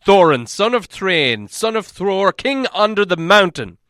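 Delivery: slow, loud, proud declaration; dwarf king proclaims himself to guards, loudly. A narrator's reading. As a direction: announce the royal line with weight. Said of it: "said the dwarf in a loud voice".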